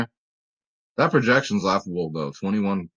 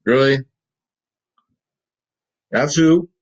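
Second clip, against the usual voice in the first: incredulous; 3 semitones higher, 6 dB louder than usual. Real, not acted. Disbelief at the cat's pick.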